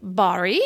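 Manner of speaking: "Barry" with a distinct open A; British-style Barry. Retold or imitated. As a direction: say "Barry" like the man's name, vowel unlike "berry". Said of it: "We say".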